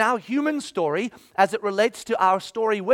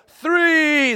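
calling out the count, higher; raised count; 6 semitones higher, 4 dB louder than usual. Retold or imitated. Pastor counting down to his kid, calling louder. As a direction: call the number out to the kid.

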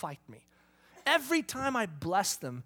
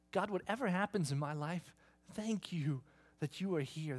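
prayer. Acted. Preacher modelling a grateful prayer to God.

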